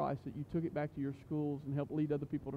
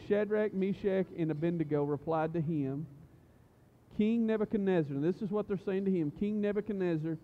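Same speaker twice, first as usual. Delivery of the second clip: deliberate preacher's reading, stressing key words; emphatic scripture reading. Acted. Youth pastor reading the three men's reply to the king, emphatic scripture reading. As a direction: read the reply out firmly, phrase by phrase.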